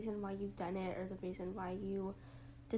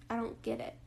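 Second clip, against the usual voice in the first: flat deadpan. Retold or imitated. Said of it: "I said that super flatly".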